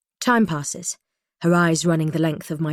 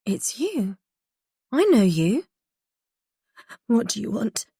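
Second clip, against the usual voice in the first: scared, higher voice; frightened; 5 semitones higher than usual. Acted. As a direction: recoil in fear. Frightened recognition.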